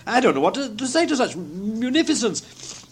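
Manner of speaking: high, halting stammer of thanks; overwhelmed and speechless. A narrator's reading. Gentleman thanking Scrooge for munificence, lost for words.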